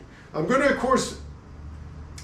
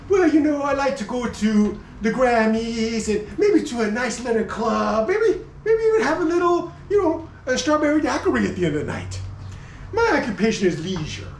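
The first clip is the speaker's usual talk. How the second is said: pampered leisurely jacket; 5 semitones higher than usual. Pretend. YSL jacket voiced as leisurely.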